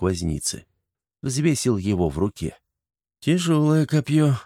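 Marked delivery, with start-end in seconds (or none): 3.2-4.3 pleased inner remark; satisfied thought. A narrator's reading. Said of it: "удовлетворённо подумал он".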